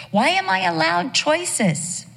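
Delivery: high, slow rhetorical question; high, drawn-out preacher's question; searching question. Acted. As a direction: lift it way up and slow down, wondering.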